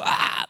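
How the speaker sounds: sudden mock scream of a demon manifesting; short imitated outburst; imitated demon cry. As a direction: let out an abrupt mock cry.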